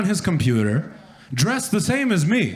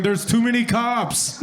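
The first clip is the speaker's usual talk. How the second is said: mock complainer; 5 semitones higher than usual. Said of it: "running around Forest Lawn going".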